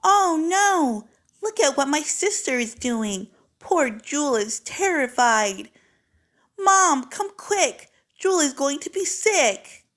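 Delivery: put-on high, loud panicked child; high, loud alarm at the sister. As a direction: call for mom in alarm. Child alarmed calls mom.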